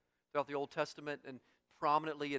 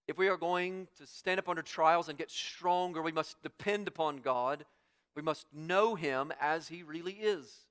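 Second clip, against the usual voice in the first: raised, emphatic preaching voice; 4 semitones higher, 7 dB louder than usual. Acted. Preacher telling the congregation to depend on God, emphatic preaching. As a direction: press the main point on them firmly.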